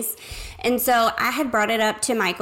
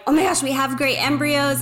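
excited retelling, higher and quicker; 4 semitones higher, faster than usual. Retold or imitated. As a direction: gush lightly over good news, a little rushed. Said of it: "I was so excited".

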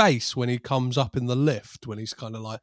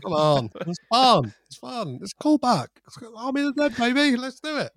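high, excited villain glee; hyped up villain; 10 semitones higher than usual. Acted. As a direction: cheer it on like a gleeful maniac.

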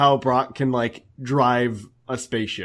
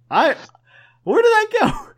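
high-pitched; 3 dB louder than usual. Real, not acted. Confused about lost audio.

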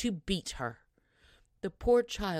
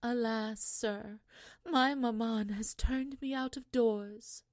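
put-on higher, plaintive girl's voice; sad young girl; 5 semitones higher than usual. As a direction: tell the prince her sorrow gently. Weeping girl answers the prince.

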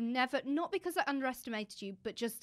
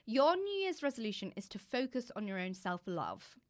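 tender reading; 3 dB quieter than usual. Real, not acted. Reads note to friend.

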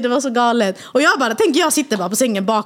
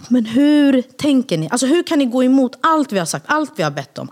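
imitating an angry husband, higher pitched; retold anger; 5 semitones higher than usual. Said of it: "Nej, han var så arg". (återgiven ilska, upprörd make)

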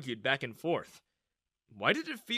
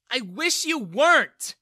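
high, much louder, slow furious yell; 10 semitones higher, 11 dB louder, slower than usual. A narrator's reading. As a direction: throw it at him. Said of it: "Bella yelled at him".

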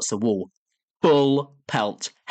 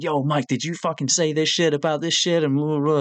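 higher-pitched imitation of a furious rant; mock angry confrontation; 4 semitones higher than usual. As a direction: accuse him in a put-on voice. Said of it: "He's fucking screaming".

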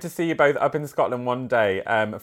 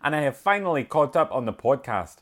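put-on a light, halting Scottish accent, bright at the start; attempted Scottish accent. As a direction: try out a wee Scottish accent for the letter. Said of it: "get into a wee bit of Scottish".

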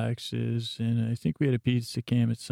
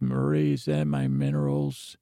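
much lower, husky put-on husband voice; Hank impression; 9 semitones lower than usual. Husband asking his wife about minerals, in a low mimicking voice. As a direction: drop the voice way down to mimic him. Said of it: "Hank says".

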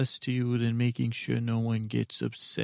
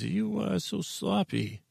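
scolding mother; 9 semitones higher than usual. Retold or imitated. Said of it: "my mother says".

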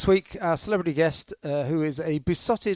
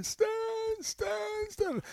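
calling the dog; 7 dB quieter, much slower than usual. Retold or imitated. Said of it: "we were standing there going".

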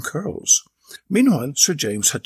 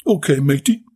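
police officer voice; 5 dB louder than usual. Acted. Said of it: "the officer in charge said".

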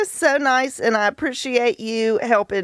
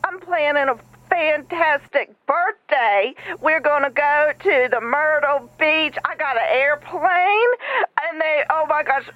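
excited pitch; 3 semitones higher than usual. Acted. I'll just play the tape.

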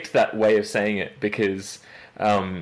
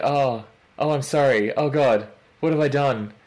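higher, lightly panicked apology; mock panic; 4 semitones higher than usual. People realising they got her name wrong, mock panic. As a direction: imitate a mortified apology. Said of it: "it's just this moment of panic".

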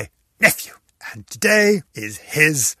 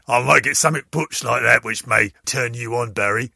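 lightly voiced mock butch tone; a hint of a rough, manly voice; 4 semitones lower than usual. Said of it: "I may suddenly get all butch".

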